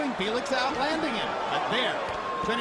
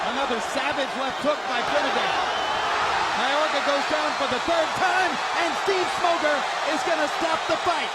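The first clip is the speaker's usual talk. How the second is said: excited; 4 dB louder than usual. Real, not acted. Calling the third knockdown.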